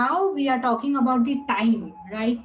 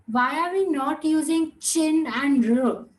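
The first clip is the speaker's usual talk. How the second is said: imitated student question; 2 semitones higher than usual. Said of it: "y'all must be having a doubt".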